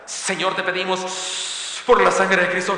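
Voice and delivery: slow, fervent mock prayer; hammed-up slow fervent praying; fiery preacher prayer. Shown as a demonstration. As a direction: pray like a worked-up televangelist, tongue in cheek. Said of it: "si oro como enchilado".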